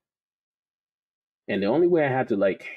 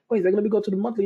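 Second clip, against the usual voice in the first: excited realization; 12 semitones higher, 4 dB louder, much faster than usual. Retold or imitated. Retelling discovering bigger time frames.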